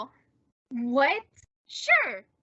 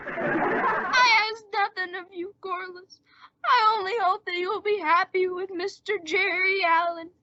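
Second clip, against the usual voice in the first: mock-martyr deathbed plea; 3 semitones higher than usual. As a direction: pile on the self-pity to win her back. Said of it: "pull this deathbed gag".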